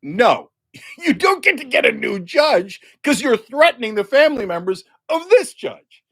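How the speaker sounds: mock stern judge, lightly voiced; scolding judge. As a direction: scold him like a fed-up judge. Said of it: "And Cynthia Kern goes".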